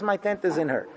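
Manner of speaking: quiet, with the weight on the word My; soft voice of Hashem. Retold or imitated. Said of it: "Hashem says".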